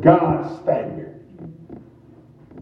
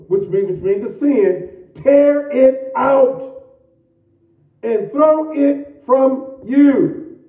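fiery preaching; 12 semitones higher than usual. Acted. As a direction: preach it out with fire, cuz. Preaching scripture, raised and slow.

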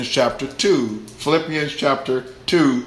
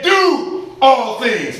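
high, drawn-out imperative; forceful pulpit command; 7 semitones higher, 4 dB louder, much slower than usual. Acted. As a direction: proclaim it slowly as an order. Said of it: "Meaning it's a command".

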